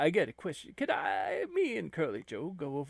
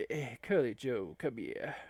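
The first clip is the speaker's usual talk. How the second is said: put-on low, quiet old abbot calling someone over; a hushed, lower abbot beckoning; abbot's voice; 4 semitones lower, 3 dB quieter than usual. Abbot calls Curly Joe over.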